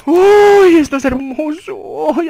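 high squeal easing into high cooing; high, delighted swoon. Real, not acted. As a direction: coo over a treasure in a high voice. Delights over item he holds.

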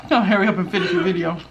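laughing mock repeat; mocking echo. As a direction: parrot her back, laughing. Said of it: "repeating daughter mockingly".

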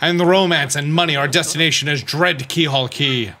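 rousing call to set sail; hammed-up seafaring proclamation; grandiose navigator. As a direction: launch the voyage with a flourish. Voices Flavio setting sail.

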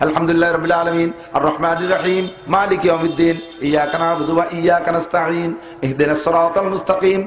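each verse of আলহামদুলিল্লাহ set apart with breaths; verse by verse recitation. Shown as a demonstration. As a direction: recite with a pause after every verse. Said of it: "এভাবে কেটে কেটে পড়বো". (প্রতি আয়াতে থেমে থেমে তেলাওয়াত)

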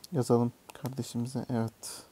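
ordinary talk

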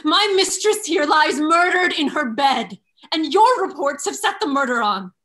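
defiant. Acted. Emilia defies Iago.

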